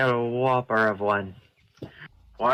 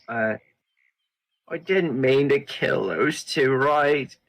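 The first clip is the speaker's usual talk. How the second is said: hurt. Acted. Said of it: "genuinely, like, kinda hurt".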